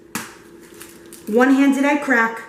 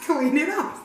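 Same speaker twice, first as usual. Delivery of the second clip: mock scolding; 3 semitones higher, 4 dB quieter than usual. End of acted scolding.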